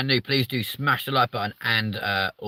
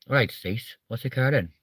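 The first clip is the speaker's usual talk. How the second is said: lilting mock Welsh greeting; attempted Welsh accent; 2 semitones higher than usual. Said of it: "I can't do the Welsh accent".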